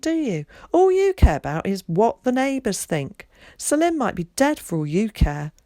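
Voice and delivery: high, loud accusing outburst; furious shout. A narrator's reading. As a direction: hurl the accusation at her. Kat shouting at mum.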